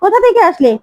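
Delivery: a mock angry demand, rising on the repeat; narrating a mother's sharp anger; lightly acted furious mother; angry scolding. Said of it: "প্রিয়ঙ্কদা রেগে যায় আর বলে".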